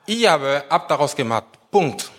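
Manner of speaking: "Ihr aber habt daraus gemacht" emphasized, closed with a firm "Punkt"; stress on IHR ABER. Shown as a demonstration. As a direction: stress "Ihr aber", then end it decisively. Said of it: "die Betonung liegt auf". (Betonung auf „Ihr aber habt daraus gemacht“, dann klarer Schlusspunkt)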